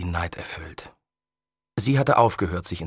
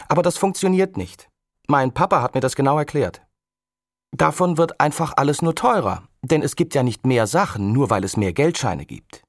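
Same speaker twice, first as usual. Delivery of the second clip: put-on higher, louder girl explaining like her papa; a lightly voiced clever girl; know-it-all girl; 5 semitones higher, 4 dB louder than usual. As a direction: lecture him smugly from the swing. Girl lectures, calling out.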